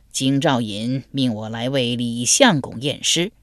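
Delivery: a hint of a doddering old master; lightly voiced old man. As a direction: speak slow as a frail elder.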